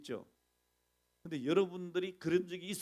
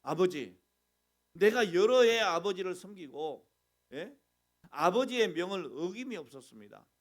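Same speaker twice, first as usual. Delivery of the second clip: louder, indignant protest to his father; elder son loudly reproaching his father; aggrieved elder son; 6 dB louder than usual. Retold or imitated. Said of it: "뭐라고 하는지 압니까?".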